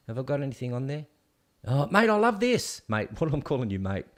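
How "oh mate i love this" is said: bursting with delight, pitch jumping up; thrilled, gushing over a van he loves; excited. Real, not acted.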